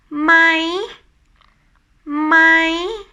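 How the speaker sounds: "my" held high, lifting at the end. Shown as a demonstration. Teacher introducing the next tone, high rising "my". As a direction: keep "my" climbing, never dropping. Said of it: "with high tone".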